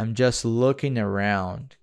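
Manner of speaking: "I'm just looking around" drawn out slowly; slow practice read. Shown as a demonstration. Teacher slowly shadowing the app audio for students. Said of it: "Clique pra ouvir e ver se é isso mesmo".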